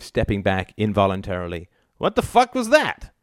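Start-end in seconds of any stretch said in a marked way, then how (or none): 2.0-3.1 high-pitched indignant cry; shocked protest. A narrator's reading. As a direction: demand an answer in shock. Husband just slapped in the face.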